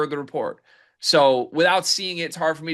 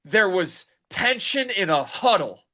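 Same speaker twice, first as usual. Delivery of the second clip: mock sideline report; 4 semitones higher than usual. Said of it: "Let's go down for the sideline report".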